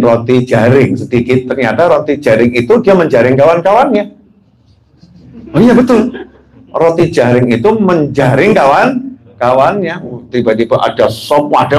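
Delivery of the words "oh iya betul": surprised realisation. Real, not acted. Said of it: "sudden realisation of the pun".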